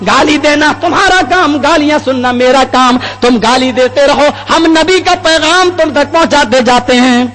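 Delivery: fervent preaching. Real, not acted. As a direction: preach it to a crowd with conviction. Preaches at full force. (پرجوش خطیبانہ انداز)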